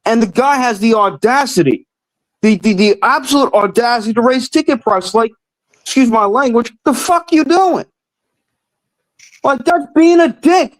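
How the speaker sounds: exasperated fan venting, voice climbing high; worked up, emotional. Real, not acted. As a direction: raise the pitch in real outrage without shouting. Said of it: "sorry if I'm yelling".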